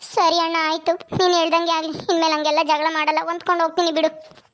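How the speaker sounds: lightly voiced sister giving in; obedient younger sister. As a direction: agree meekly with an older brother, a hint of character voice. (ಅಣ್ಣನ ಮಾತು ಒಪ್ಪುವ ತಂಗಿಯ ಧ್ವನಿ)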